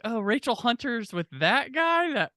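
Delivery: drawn-out, high-pitched incredulity; retold appalled amazement; mock disbelief. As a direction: act baffled, stretching words and rising high. Voices his past disbelief at couple.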